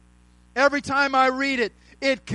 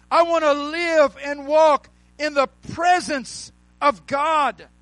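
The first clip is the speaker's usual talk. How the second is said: raised, ringing preacher's voice, shouting the key words; full preaching; 3 semitones higher than usual. Acted. Pastor preaching to his church, at full force. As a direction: preach it hard to the congregation.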